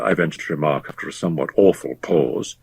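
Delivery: usual speaking voice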